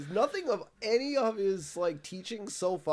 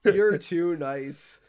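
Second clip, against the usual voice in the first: mocking reply; 5 dB louder, slower than usual. Voicing reply to Burns.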